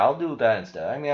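ordinary talk

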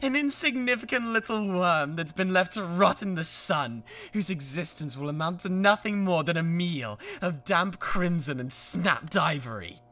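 grind him down word by word; contemptuous insults. Acted.

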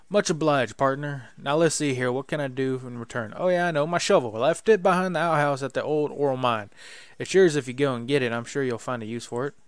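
hearty cowboy thanks, leaning in. Acted. Cactus man NPC voice.

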